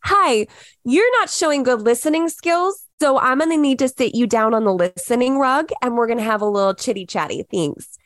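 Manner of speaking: a hint of a sing-song kindergarten teacher; mock patronizing. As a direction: talk down like to a toddler on the listening rug, lightly hammed. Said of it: "to make it not sound patronizing".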